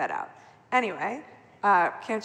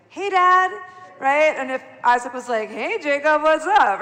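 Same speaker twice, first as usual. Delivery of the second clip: casual greeting; 6 semitones higher, 7 dB louder than usual. Retold or imitated. Acted casual father-son greeting.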